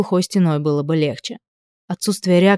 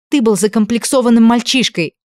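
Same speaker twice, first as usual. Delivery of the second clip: loud and higher, barking; barked accusation; 5 semitones higher, 4 dB louder than usual. A narrator's reading. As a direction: bite the accusation out. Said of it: "рявкнула Элли".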